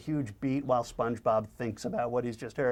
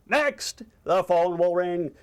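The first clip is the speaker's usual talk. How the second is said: raised, dramatic spooky announcement; ghost-story teller; 6 semitones higher, 4 dB louder, slower than usual. Acted. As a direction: announce each omen of a ghost tale, pitched high. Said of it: "Squidward tells a ghost".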